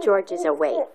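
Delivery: lively reading. Real, not acted. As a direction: read it out brightly, awake. Reading awake page.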